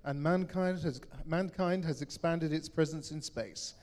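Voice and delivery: dramatic movie trailer narration. Acted. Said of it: "It's your best trailer voice".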